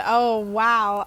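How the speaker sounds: ordinary delivery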